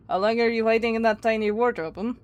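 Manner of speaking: put-on amateur Russian accent; lightly imitated Russian accent. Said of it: "Don't mind how bad my accent probably is".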